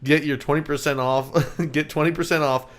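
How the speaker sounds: upbeat sponsor read, breaking into laughs. Acted. Host reading a MeUndies ad to listeners, upbeat. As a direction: sell the underwear like a host reading copy.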